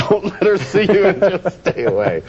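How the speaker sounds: high-pitched mocking cartoon voice; little inner voice. Therapist mimics client's inner warning, in high silly voice. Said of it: "a little voice inside your head goes".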